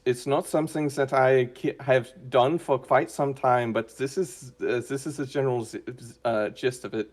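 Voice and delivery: a light, rusty German accent sliding in and out. Shown as a demonstration. Asked by the host for his character's voice, a light rusty German accent. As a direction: ease into a half-remembered German accent. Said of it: "can we hear a German accent from you?".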